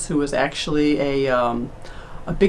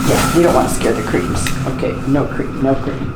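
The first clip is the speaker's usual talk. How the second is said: hushed whisper; whisper yelling; 4 semitones lower than usual. Real, not acted. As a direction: whisper so the creams don't hear. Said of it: "Why are we whispering?".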